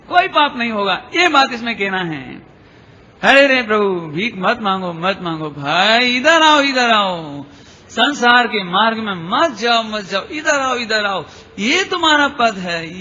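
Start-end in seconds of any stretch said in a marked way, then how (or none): 3.2-13.0 drawn-out pleading call; slow beckoning, as if turning someone back. Acted. Teacher beckons souls off the worldly road, calling out.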